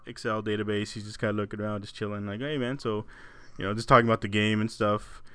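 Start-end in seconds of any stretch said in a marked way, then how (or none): 2.4-2.8 nonchalant. Retold or imitated. Chatting to a coworker about the game, nonchalant. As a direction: toss it off like no big deal. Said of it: "I'm just talking nonchalant".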